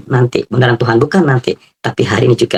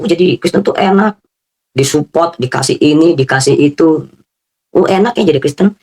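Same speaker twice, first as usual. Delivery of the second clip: higher, sing-song mocking of outsiders; mocking envy; 6 semitones higher than usual. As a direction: parody the envious gossip. Mocking what people assume.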